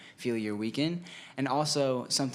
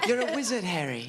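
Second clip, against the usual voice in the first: put-on British accent, pitched up then dropping; 8 semitones higher, faster than usual. Shown as a demonstration. Band member quoting Harry Potter for laughs, mock British accent. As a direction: play up the British accent on a film quote. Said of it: "Who can do a British accent?".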